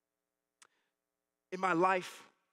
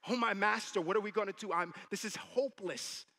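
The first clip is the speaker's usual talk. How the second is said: loud, raised cry for help; helpless despair; 4 semitones higher, 5 dB louder than usual. Acted. Father quoting the servant's hopeless cry, despairing. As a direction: echo the servant's panic, voice lifted. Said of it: "I felt totally helpless".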